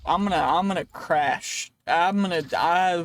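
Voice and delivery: mock alarm. Gamer about to crash, loud mock alarm. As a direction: call out your doom, half playing.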